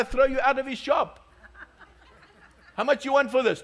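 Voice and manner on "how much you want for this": customer asking price. Retold or imitated. Acted Turkish shop haggling.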